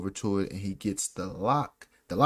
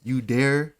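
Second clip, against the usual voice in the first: indignant Snape; 2 semitones higher, 5 dB louder than usual. Retold or imitated. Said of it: "and Snape was like".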